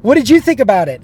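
high, loud curious question; surprised. Retold or imitated. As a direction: ask it with eager surprise. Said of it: "She goes".

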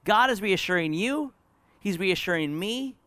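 high-pitched, insistent pulpit reassurance; preaching exhortation. Real, not acted. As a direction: press the comfort home from the pulpit.

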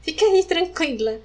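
put-on very high, sweet apologetic old lady voice; imitating the bus lady, suddenly sweet after seeing the scar. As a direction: mimic the lady hastily backing down.

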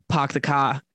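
put-on light Boston accent, unhurried. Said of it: "friends from Boston".

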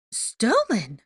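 high, loud, shocked exclamation; hammed-up shock; dramatic gasp. A narrator's reading. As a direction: gasp it in theatrical disbelief. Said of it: "she gasped dramatically".

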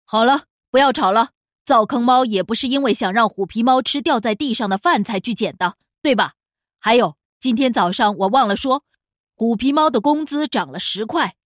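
loud, firm boss voice. Acted. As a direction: shut the quarrel down firmly. Boss stops quarrel firmly.

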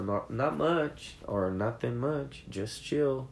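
high, laid-back answer; casual reply. Shown as a demonstration. Teacher shows the relaxed reply to what's up. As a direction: shrug it off easily. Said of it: "esperando meio que uma resposta".

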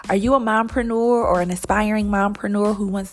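measured, clearly delivered promo read; sponsor ad read. Acted. Host invites mompreneurs to join Mother Hustler University, ad read. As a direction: pitch the program like a podcast sponsor spot.

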